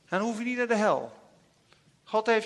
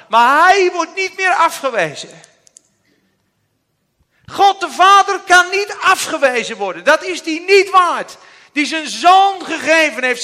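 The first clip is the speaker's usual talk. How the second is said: loud, ringing pulpit proclamation; fervent preaching; 3 semitones higher, 10 dB louder than usual. Real, not acted. Preacher proclaiming to the congregation, loud and fervent. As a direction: preach it out with full conviction. Preaching climax, full force.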